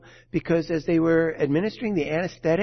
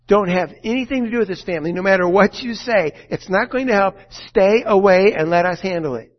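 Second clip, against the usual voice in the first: louder, fast stern instruction; lawyers' firm warning; 6 dB louder than usual. Retold or imitated. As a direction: lay down the law to the doctor.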